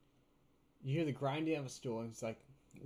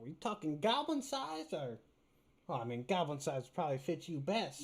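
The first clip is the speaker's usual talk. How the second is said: goblin voice; 2 semitones higher than usual. Acted. Goblin shopkeeper talking.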